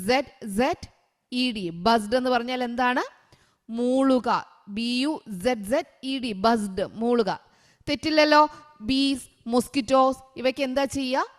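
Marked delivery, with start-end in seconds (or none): 4.7-6.3 slow letter-by-letter spelling; spelled out slowly. Shown as a demonstration. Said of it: "spelling out the word". (അക്ഷരങ്ങൾ പതുക്കെ ഉച്ചരിക്കുന്നു)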